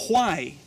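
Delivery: WHY with a rough H, "juai"; wrong learner's WHY, "hwai"; mispronounced WHY. Shown as a demonstration. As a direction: demonstrate the faulty WHY with a breath of J first. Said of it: "It is not".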